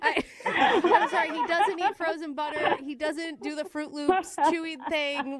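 high, laughing through the words; laughing apology. Real, not acted. Prank caller confessing to the bride, laughing as she speaks. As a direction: apologize while cracking up. Prankster cracks up revealing the joke.

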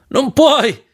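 high-pitched cry of protest; grido. A narrator's reading. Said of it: "gridò". (grido acuto di protesta)

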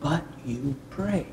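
slow, soft pronouncement with pauses; voice of God. Retold or imitated. The voice answers again, soft voice of God. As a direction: let each part land gently, hushed. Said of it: "And the voice again said".

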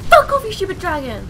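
loud, high furious curse; angry shout. Real, not acted. Gamer cursing the dragon, shouting angrily. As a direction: bellow it at the dragon.

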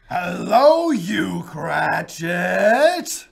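loud bark for the clerk; mock angry shout. Scrooge feigns anger calling Cratchit in. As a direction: summon him sharply.

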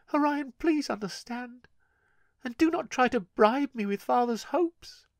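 put-on high, pleading girl's voice; desperate plea. Gale begging her brother to burn her, high desperate plea. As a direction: beg him to burn her.

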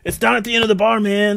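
put-on casual vendor pointing the way, Hispanic accent.

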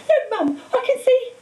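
put-on a girl tugging at her mother, thrilled; excited little girl. A narrator's reading.

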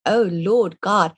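fearful cry to God, drawn out; mild retold dread; anxious prayer. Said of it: "all of a sudden I thought".

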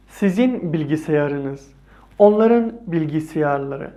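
slow, careful teacher's demo of each phrase; slow model reading. Shown as a demonstration. Teacher modelling Turkish phrases for students, slow and careful. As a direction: read each Turkish phrase slowly for learners to copy.

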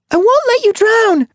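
very high, loud reassurance; shouted promise. A narrator's reading. Sun Paw promises her drowning friend, loud shout. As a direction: shout across the water.

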